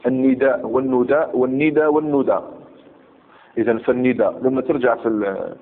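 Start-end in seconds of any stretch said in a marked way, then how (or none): 0.1-2.4 "النداء والنداء والندى والندى" as four forms, i or u, long or short ending; four variant pronunciations. Shown as a demonstration. Teacher listing the four dialect forms, "النداء" varied in vowel and ending. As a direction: step through nidaa, nudaa, nida, nuda distinctly. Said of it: "لأنه فيه أربع لغات".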